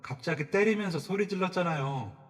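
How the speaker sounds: loud, high protest; indignant shout. Retold or imitated. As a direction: shout back in disbelief. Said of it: "소리를 쳤습니다". (억울해서 소리치는 목소리)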